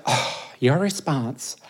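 low, slow mock wife voice; lightly put-on voice of a disapproving wife; joking wife impression. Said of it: "that's how she actually talks".

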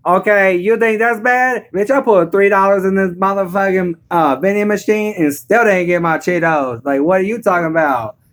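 sassy mock African American dialect; one-up them in an exaggerated African American accent; caricatured Black woman. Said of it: "And she'll be like".

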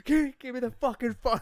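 high, loud imitated demand through laughter; laughing, hammed-up shouted order; laughing mock demand. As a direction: act out the threat while cracking up. Acted film threat while laughing.

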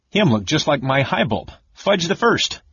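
high, dreamy Gully Dwarf voice; a Gully Dwarf remembering her king; sighing Gully Dwarf. Acted. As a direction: sigh it out like a smitten little dwarf. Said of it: "Bupu sighed".

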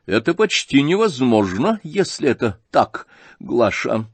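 взволнованный генерал, громче к концу; сбивчиво, в волнении, ищет поддержки у жены; взволнованно. Acted. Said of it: "сильно волнуясь". (генерал взволнованно обращается к супруге за помощью)

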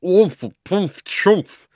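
high, loud muffled spluttering; muffled inside hat. A narrator's reading. Uncle Andrew trapped in his hat, muffled spluttering. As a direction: struggle to speak from inside a hat. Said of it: "came Uncle Andrew's voice from inside the hat".

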